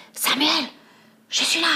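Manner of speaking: high call to a friend. Acted. Peter signals Samuel by the river, calling out. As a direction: call out to get a friend's attention.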